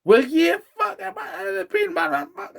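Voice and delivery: high-pitched retold rant; hammed-up exasperation at the giggling girl; exasperated outburst. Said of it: "and I went".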